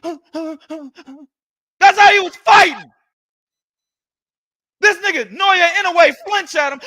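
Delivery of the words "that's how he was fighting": slow laughing delivery, chuckling through it. Real, not acted. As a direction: laugh through the words, drawn out. Laughing while mocking the fight.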